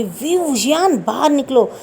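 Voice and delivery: high-pitched yell calling her son out; shouting. Retold or imitated. Angry mother calling son out of his room, high yell. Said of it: "ज़ोर से चिल्लाने की आवाज़ आती madam की".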